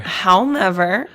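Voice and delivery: however stretched out slowly, with a rise, then a pause; slow with comma pause. Shown as a demonstration. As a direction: drag out however like a spoken comma.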